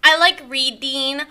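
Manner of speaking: lightly voiced whiny victim, a hint of a valley girl; self-pitying influencer character. A self-pitying podcast guest complains to the host, lightly whiny. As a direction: mope about the haters, a little put-upon. Plays the character Lyre Lynn.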